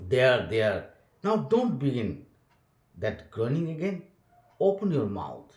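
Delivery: expressive read-aloud for students; storybook narration with voiced characters; story reading. A narrator's reading. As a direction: read the tale to the class with feeling. Teacher reads story aloud.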